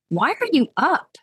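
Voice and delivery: put-on drunk questioning. Drunk Clara questions her caller.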